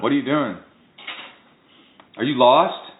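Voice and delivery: lightly put-on New York grilling; New York accent. Imitating neighborhood watch grilling them, mock New York accent. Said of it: "in a New York accent".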